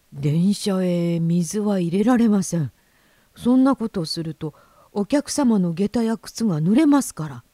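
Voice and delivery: lightly voiced official, firm refusal; a hint of a stern railwayman; refusing conductor. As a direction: explain the rule with measured firmness.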